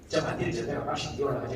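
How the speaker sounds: thick Gyeongsang dialect demo; original Gyeongsang dialect. Shown as a demonstration. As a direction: show off unfiltered Gyeongsang speech. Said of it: "경상도 오리지널도". (경상도 오리지널 사투리)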